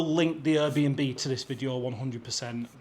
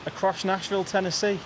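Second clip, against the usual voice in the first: elated; 5 semitones higher, faster than usual. Real, not acted. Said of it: "I'm made up".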